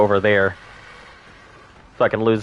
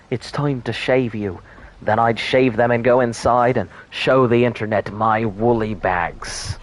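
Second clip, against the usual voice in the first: put-on old shepherd. Streamer riffing to chat as a mock old shepherd. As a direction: spin it like a doddery old farmer's yarn.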